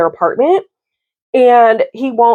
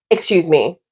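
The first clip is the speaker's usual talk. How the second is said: firm rebuke; 4 semitones lower than usual. Real, not acted. Vlogger scolding the boyfriend's lie, firm falling rebuke. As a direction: shut it down flatly.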